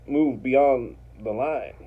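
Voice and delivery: slow, lightly irritated command, imitating a big man; mildly angry retold order, each word drawn out; pissed-off order. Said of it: "and he's pissed off".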